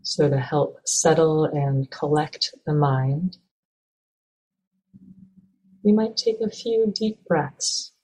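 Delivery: calm, even meditation guidance with long pauses; measured, unhurried meditation teacher; guided meditation. Acted. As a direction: gently guide listeners into stillness, leaving space between phrases.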